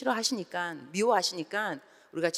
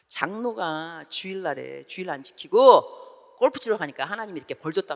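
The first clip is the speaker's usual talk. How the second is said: mock stern preacher; 5 dB louder than usual. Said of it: "목사님이 설교할 때 보라고".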